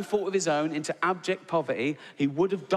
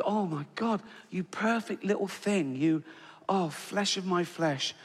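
tender doting; 2 semitones higher, 3 dB quieter than usual. Acted. Doting over imagined sleeping baby.

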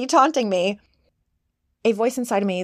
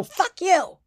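much higher, snapped dismissal; telling it off; 9 semitones higher than usual. Retold or imitated. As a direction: shut the inner critic up in one burst. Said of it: "You wanna just go".

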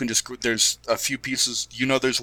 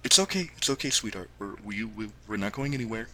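comforting dad; 4 dB quieter, faster than usual. Acted. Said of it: "puts his arms around you and goes".

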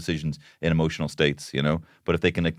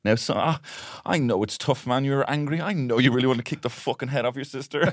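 mock gentle dad; 7 semitones higher than usual. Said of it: "so I had to be like".

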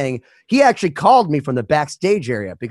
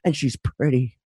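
excited phone call; 4 dB quieter than usual. Retold or imitated. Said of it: "Ollie called me like".

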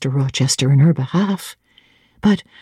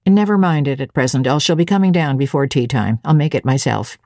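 a lower, plain servant's voice; Grace Poole, lower; 3 semitones lower than usual. Acted. Grace answers.

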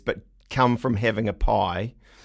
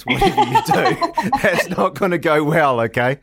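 laughing; 4 semitones higher, 5 dB louder than usual. Real, not acted. Joking warning about customs.

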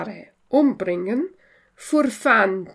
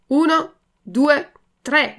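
higher, slow counting cry before a leap; counted-out cry; 5 semitones higher, 4 dB louder, slower than usual. A narrator's reading. Puppet counting himself into a jump over the ditch, crying out. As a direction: count it out in a raised voice, slowly. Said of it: "gridò il burattino".

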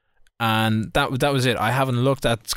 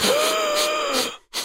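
high, sharp mock gasp; imitated gasp. Neighbour hearing the lighter click, mock gasp. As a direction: suck in air as if suddenly alert. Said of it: "It was like".

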